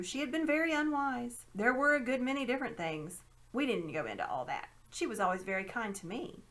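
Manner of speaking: a hint of a sly old man; lightly voiced scheming uncle. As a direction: explain with mild condescension. Uncle Andrew on godmother.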